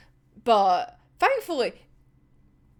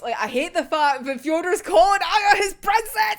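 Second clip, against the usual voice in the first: louder, heated complaint; annoyed rant; 4 semitones higher, 4 dB louder than usual. Real, not acted. Fan complaining about Fyodor calling Aya princess, heated and loud. Ranting about hated scene.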